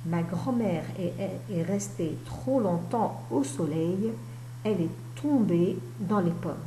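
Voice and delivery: slow read-aloud with drawn-out words; careful reading aloud. Acted. Teacher reads grandmother's bubble to pupils, careful reading aloud. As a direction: read it out slowly for young pupils.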